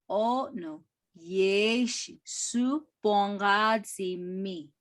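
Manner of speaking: slow, careful repeat of "O no yeshi su bongazi mi". Shown as a demonstration. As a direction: say it again slowly for the students. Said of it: "repeated slower".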